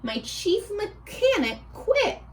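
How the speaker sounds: a hint of a flustered prince, high on oh blast; exasperated prince whose ship just broke; annoyed prince. Prince complaining about his broken rocket ship, lightly voiced fluster. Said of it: "The prince hopped out".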